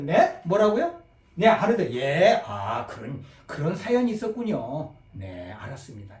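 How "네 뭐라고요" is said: 뭐라고요 rising at the end like a confused question; puzzled question. Shown as a demonstration. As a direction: ask 뭐라고요 as if you misheard the caller. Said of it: "second tone demo via phone".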